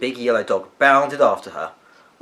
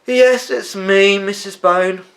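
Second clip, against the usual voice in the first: weary sigh; 10 semitones higher, 10 dB louder, slower than usual. A narrator's reading. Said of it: "said Benjamin with a sigh".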